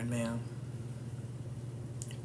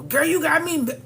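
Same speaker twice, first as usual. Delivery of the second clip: sassy; 9 semitones higher, 5 dB louder than usual. Retold or imitated. Sassy quote.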